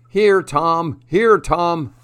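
high-pitched call to a pet. A narrator's reading. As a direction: call the turkey in from the yard. Father calling the turkey in yard.

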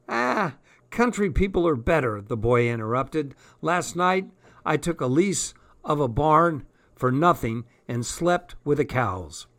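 lightly voiced young Cockney lad; chatty street boy, a touch hoarse. Boy character voice.

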